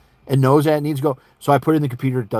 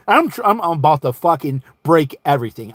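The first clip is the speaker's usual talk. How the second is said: so pissed; 2 semitones higher than usual. Retold or imitated. Man unable to find his scanner, pissed. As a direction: burst out at the end of your patience. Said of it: "I'm so pissed".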